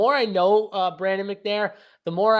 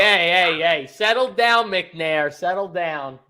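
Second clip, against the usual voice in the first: mock scolding; 4 dB louder, slower than usual. Host scolding co-host jokingly.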